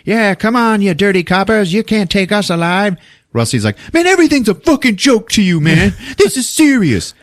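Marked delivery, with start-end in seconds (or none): 0.1-3.0 high, louder tough-guy taunt; hammed-up old movie gangster yell; cartoon gangster yell at the cops; mock gangster taunt. 3.9-7.2 high, louder mock exasperation; whine-scold your joking friend; high exasperated mock rant at a joking friend. Rusty scolding JC.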